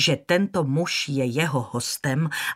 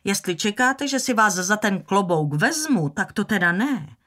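high, louder defiant snap; defiant retort; 5 semitones higher, 3 dB louder than usual. Acted. Scarlett turns on Rhett over the hat, defiant and sharp. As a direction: throw it at him with a toss of the head. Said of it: "Obořila se na Reta otevřeně a vyzývavě".

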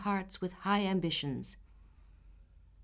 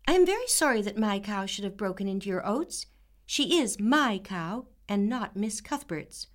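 dignified; 3 semitones higher, 3 dB louder than usual. Acted. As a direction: apologize with poise. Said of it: "with increase of dignity at every word".

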